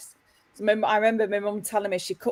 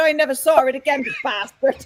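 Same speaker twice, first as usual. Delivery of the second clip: put-on pitched-up Irish accent; 7 semitones higher than usual. Retelling a family story in the mother's own words, imitating an Irish mum. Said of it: "in my mum's words, my mum was Irish".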